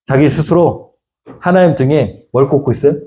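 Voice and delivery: ordinary talk, nothing marked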